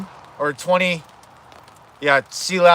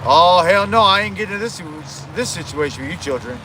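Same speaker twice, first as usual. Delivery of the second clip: Chef. Acted. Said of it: "Chef, what's".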